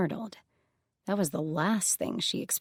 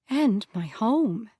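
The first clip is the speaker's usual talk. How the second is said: shameless; 3 semitones higher, 3 dB louder, slower than usual. Acted. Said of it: "she said shamelessly".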